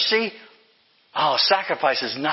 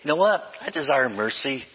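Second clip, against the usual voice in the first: casual shrug; 3 semitones lower than usual. Retold or imitated. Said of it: "It wasn't just Jesus saying".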